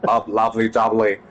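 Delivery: put-on lightly done English accent, Cockney flavour; a hint of an English Cockney accent. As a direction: play at sounding English on the catchphrase. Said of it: "changing to a English accent".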